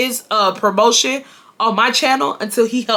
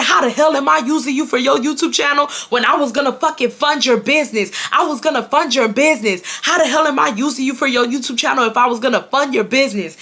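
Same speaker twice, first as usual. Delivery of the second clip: imitating angry ex; 4 semitones higher than usual. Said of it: "This is how he's talking to me".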